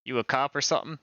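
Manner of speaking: lightly twanged Southern questioning; Southern accent. Acted. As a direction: quiz them in a country Southern accent. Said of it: "I'm not the best at doing accents".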